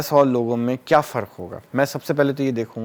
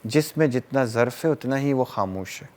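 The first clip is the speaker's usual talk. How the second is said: reciting a verse. Acted. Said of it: "ایک شعر یاد آ گیا".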